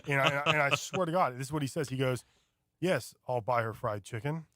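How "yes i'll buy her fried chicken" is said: deadpan mock dub actor; imitating emotionless dub. Mocking the dubbed son arguing with his mother, emotionless. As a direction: read it like an audiobook, no emotion. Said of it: "like they're reading an audiobook".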